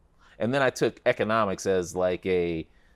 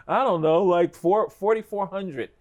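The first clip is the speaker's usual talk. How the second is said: irritated answer; 9 semitones higher, 4 dB louder than usual. Retold or imitated. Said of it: "and I'm like".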